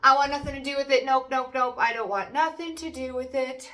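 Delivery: high, loud fast nope; mock firm refusal. Reader voicing the querent rejecting the nagging voice, loud mock refusal. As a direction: shut it down firmly. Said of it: "You're like".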